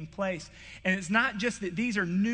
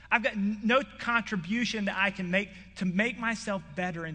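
a preacher voicing Isaiah's despair, louder and higher; anguished Isaiah; 3 semitones higher, 3 dB louder than usual. Preacher voicing Isaiah's confession to the congregation, anguished. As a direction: cry out as a ruined man before God. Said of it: "What he says is".

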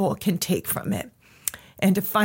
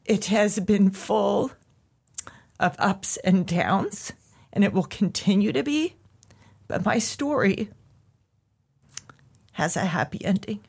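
1 tearful. Real, not acted. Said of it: "And that's why I'm crying".

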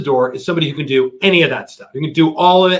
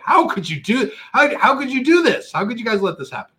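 angry yelling; 8 semitones higher than usual. Retold or imitated. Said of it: "I screamed at those people".

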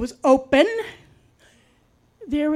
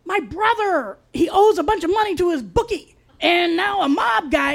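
high, wheedling imitation of her; girlfriend's plea; 6 semitones higher than usual. Girlfriend asking for money over the phone, high wheedling voice. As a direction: mimic her begging, pitched up. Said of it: "she was like".

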